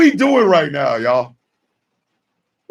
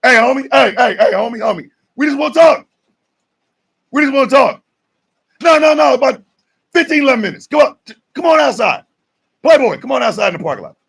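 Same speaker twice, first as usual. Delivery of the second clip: hammed-up call-out; 4 semitones higher, faster than usual. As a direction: lure him outside to talk. Calling out, we just wanna talk.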